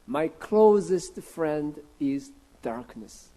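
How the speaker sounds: very slow, measured English, word by word; deliberate, drawn-out reading in English; slow English quotation. Shown as a demonstration. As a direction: spell out the line slowly for the congregation. Quotes English translation slowly for congregation.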